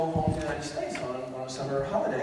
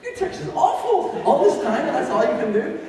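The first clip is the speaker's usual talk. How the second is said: mocking praise; 9 semitones higher, 6 dB louder than usual. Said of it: "they say".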